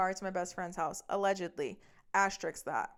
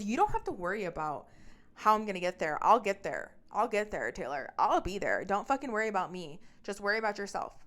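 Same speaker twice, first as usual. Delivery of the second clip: mildly heated, louder defensive comeback; irritated retort; 4 dB louder than usual. Retold or imitated. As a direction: brush them off with loud, impatient insistence. Retold argument, he snaps back.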